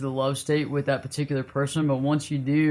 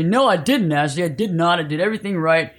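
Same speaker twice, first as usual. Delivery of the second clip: defensive protest. Retold or imitated. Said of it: "That's what your ego wants to say".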